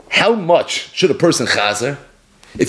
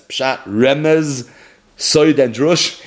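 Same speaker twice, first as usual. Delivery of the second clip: "remez" marked in a slow list; slow list that leans on "remez"; emphasis on remez; 2 semitones lower, much slower than usual. Shown as a demonstration. Teacher listing the four levels, stressing "remez". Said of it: "emphasis on remez".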